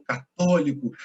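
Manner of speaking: "católico" with a stretched second syllable; stress on TÓ. Shown as a demonstration. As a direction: lean hard on the TÓ of "católico". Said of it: "o estresse da sílaba tá no".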